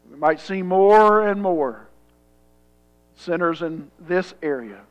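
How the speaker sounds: measured public prayer with long pauses; earnest prayer. Real, not acted. Pastor asks God to fill his church, earnest prayer.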